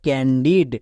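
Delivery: ক্যান্ডিড said low and whole; whole word. Shown as a demonstration. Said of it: "তাহলে পুরোটা কি দাঁড়ালো?". (পুরো শব্দ, নিচু স্বরে)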